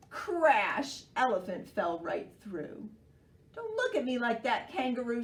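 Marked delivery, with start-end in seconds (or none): 3.5-5.2 grumpily. Acted. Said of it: "said Elephant grumpily".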